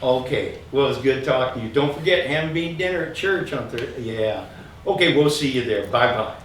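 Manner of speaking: lightly voiced chatty mom on the phone; a hint of a mother gossiping on the phone; imitating mom on the phone. Son imitating his mom chatting on the phone, lightly voiced. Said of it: "Here's my mom answering the phone".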